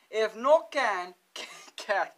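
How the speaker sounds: giggling through can can; laughing pidgin. Shown as a demonstration. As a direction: break into laughter mid-phrase. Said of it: "Hawaiian Pidgin one oh one".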